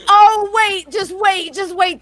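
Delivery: excited storyteller, loud on the first words; eager teasing. Real, not acted. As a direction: hold them off for the best bit. Teases that story gets better.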